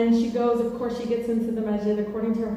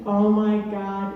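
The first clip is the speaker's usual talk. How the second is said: Layla; 4 semitones lower than usual. Retold or imitated. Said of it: "a call from my sister Layla".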